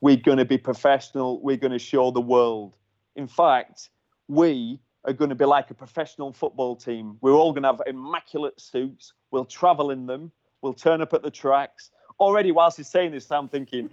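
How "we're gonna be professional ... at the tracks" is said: lightly imitated Cockney team manager; a hint of a Cockney boss; Cockney accent. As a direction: give a team pep talk in mild mock Cockney. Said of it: "he's a proper, like, Cockney accent".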